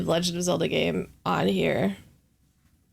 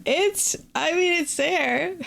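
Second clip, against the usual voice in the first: hoarse cold voice with vocal fry; croaky sick voice, creaky fry; 9 semitones higher, slower than usual. Real, not acted. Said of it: "a weird vocal fry cold voice today".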